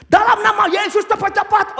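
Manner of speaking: high, forceful exorcism command; mock rebuking. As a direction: imitate a hot-tempered demon rebuker. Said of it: "Tengking-tengking lu nggak tahan diri".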